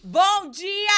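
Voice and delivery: very high, loud mimicked scream; shouted greeting. Contestant retrying a viral greeting, loud drawn-out shout. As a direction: scream it with a long last vowel.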